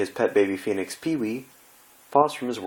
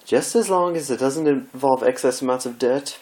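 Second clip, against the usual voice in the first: anxious Rarity voice; 5 semitones higher, 3 dB louder than usual. Acted. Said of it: "glancing anxiously away".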